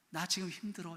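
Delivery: soft tired murmur; quiet admission. Shown as a demonstration. Pastor showing how people really say it, quiet. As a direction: let it out softly. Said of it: "이렇게 말하죠".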